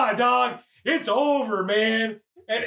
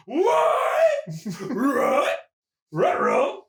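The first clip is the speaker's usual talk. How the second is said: cartoon ruh-roh; 6 semitones higher, 3 dB louder, much slower than usual. Mimics comic reaction.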